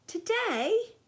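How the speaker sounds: high, rising, taken aback; surprised question. A narrator's reading. Dennis balks at Lisa's plan, surprised. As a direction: blurt it as a startled question.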